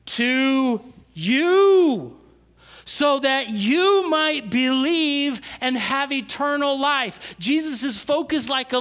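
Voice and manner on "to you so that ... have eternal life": slow and lifted, louder on "to you"; slow, rising proclamation. Shown as a demonstration. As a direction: proclaim it slowly to the crowd. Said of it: "Jesus' response is".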